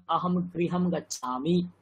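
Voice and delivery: আহম গৃহম গচ্ছামি recited slowly, syllable by syllable; slow careful recitation. Shown as a demonstration. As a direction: say গৃহম slowly with a rising tune. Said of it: "কি করে উচ্চারণ হচ্ছে".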